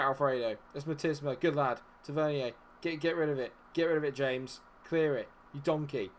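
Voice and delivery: normal talking voice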